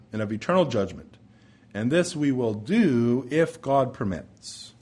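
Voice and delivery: measured, deliberate Bible reading; formal, stately reading from the pulpit; scripture reading. Real, not acted. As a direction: read holy scripture aloud to a congregation, lingering on key phrases.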